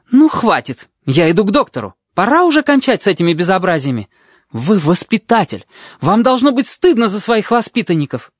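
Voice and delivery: furious nurse. A narrator's reading. Nurse storming off at the tutor, high angry voice. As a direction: storm out threatening.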